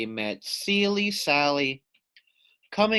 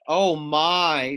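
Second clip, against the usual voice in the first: squawking; 5 dB louder than usual. Acted. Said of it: "squawked Dovekie Lovekey".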